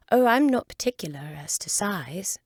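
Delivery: Alice answering quickly; young Alice. Acted. Alice's voice, hasty.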